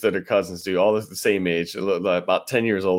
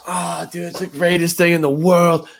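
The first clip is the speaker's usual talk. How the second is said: much higher, thrilled; excited kid; 8 semitones higher than usual. Retold or imitated. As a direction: gush like a kid at Christmas. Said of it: "just like".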